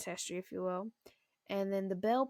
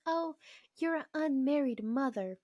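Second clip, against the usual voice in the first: higher, louder retold judgment; mock shocked disapproval; 6 semitones higher, 5 dB louder than usual. Nosy lady reacting to a single mother, mock shocked disapproval. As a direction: imitate a scandalised busybody.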